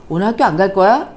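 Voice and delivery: the angry mother's version; sharp annoyed asking; emotional question. Shown as a demonstration. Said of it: "이거하고 많이 다르죠".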